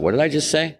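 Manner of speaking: jumps up high in sudden disbelief; the sudden shock of hearing what he'd just promised; high, startled inner voice; startled at himself. Retold or imitated. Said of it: "And then I thought".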